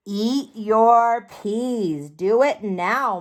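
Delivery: slow, firm parent voice; stern mom. Acted. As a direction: lay down the law to a picky kid. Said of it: "my mom said".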